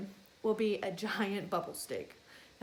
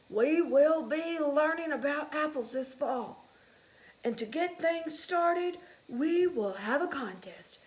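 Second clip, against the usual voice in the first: higher, louder, slow announcing voice; principal announcing; 3 semitones higher, 5 dB louder, slower than usual. Acted. Principal mouse announcing the contest to the school, slow and loud.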